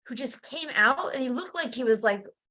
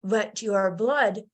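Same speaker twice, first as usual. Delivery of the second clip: stiff professional doctor; 2 semitones lower, slower than usual. Retold or imitated. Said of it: "trying to be all professional".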